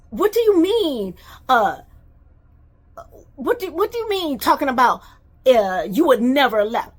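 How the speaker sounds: high, loud indignant shout; loud incredulous yell; angry outburst. Retold or imitated. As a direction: fire the question back in outrage. Furious reply in retold quarrel.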